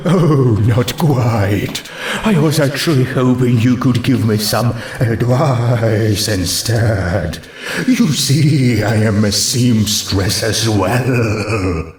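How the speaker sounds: slow, shy ghostly mare; a hint of a hesitant ghost. Ghost mare shyly confiding to Rarity, slowed.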